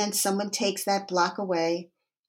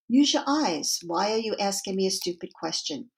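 hostile retort. Acted. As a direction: snap at the stranger with contempt. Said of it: "looks at you with hostility and says".

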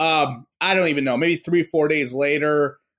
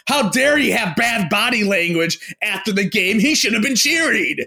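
mock outrage; 4 semitones higher than usual. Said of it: "I wasn't going there going".

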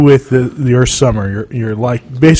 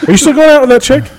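teasing question; 11 semitones higher, faster than usual. Real, not acted. Teasing friend about his girlfriend.

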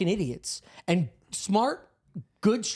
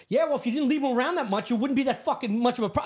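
angry yelling; 5 semitones higher, faster than usual. Retold or imitated. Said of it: "I'm yelling to myself".

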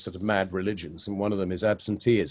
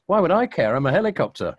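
cow punchline; 8 semitones higher, 5 dB louder than usual. Retold or imitated.

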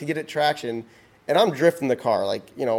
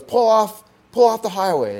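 raised, higher-pitched PA command; cop yelling orders; 8 semitones higher, 4 dB louder than usual. Retold or imitated. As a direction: imitate a cop calling out over the PA. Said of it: "the cop yells at".

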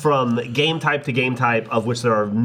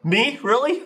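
incredulous whine; 9 semitones higher than usual. Retold or imitated. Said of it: "And Matt goes".

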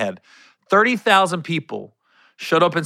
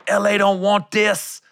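higher, drawn-out retold stage line; hype man joke; 5 semitones higher, slower than usual. Comic retelling his pep rally joke, playful hype. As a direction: pitch it up like a punchline, slowly.

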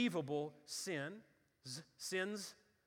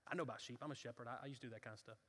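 leaning in eagerly; 5 semitones lower, 8 dB quieter, much faster than usual. Acted. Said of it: "You can see David leaning in like".

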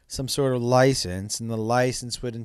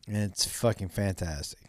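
whispering; 5 semitones lower, 7 dB quieter than usual. Real, not acted. Confiding praise of the movie.

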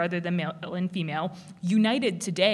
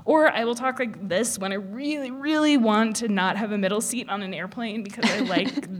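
uplifting voice; 2 semitones higher, 3 dB louder than usual. Shown as a demonstration. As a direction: sound cheerily uplifting, a bit too much. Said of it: "a voice like this all day".

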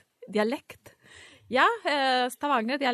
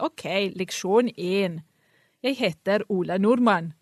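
textbook lesson voice. Acted. Student mocking Norwegian course books, stilted lesson voice. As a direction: spell it out like a stilted beginner's Norwegian tape. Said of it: "Ingen snakker sånn".

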